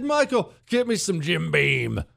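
mock-order for bourbon; calling for a drink. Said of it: "So what if I said".

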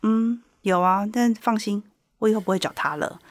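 light, casual reassurance; breezily nonchalant. Retold or imitated. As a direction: play it down as no big deal. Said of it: "云淡风轻地说".

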